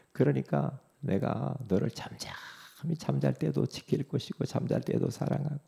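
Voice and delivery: soft, breath-led declaration of love; tender God voice. Acted. God telling a believer how much he loves them, tender and soft.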